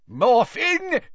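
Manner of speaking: high, loud call of a name; loud shout. A narrator's reading. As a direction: bellow it as a summons. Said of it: "said a loud voice".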